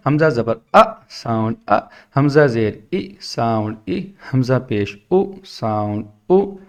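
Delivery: short vowels "ا", "ای", "او" cut off abruptly; read with a jerk. Shown as a demonstration. Teacher modelling a child's recitation, jerked short "ا", "ای", "او". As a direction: spell it out, ending each vowel "ا", "ای", "او" with a jerk, never dragged. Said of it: "جھٹکے کے ساتھ پڑھتے ہیں".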